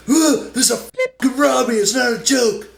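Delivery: loud, high yelling mugger; robber. Retold or imitated. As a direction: bark it like a panicked mugger. Robber insists it is real.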